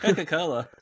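"Coca-Cola" with no lip closure, falling tune; lips not touching. Shown as a demonstration. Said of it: "say Coca-Cola without touching your lips".

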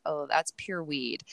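lightly voiced Dutch accent; a hint of a Dutch accent. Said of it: "in his beautiful Dutch accent".

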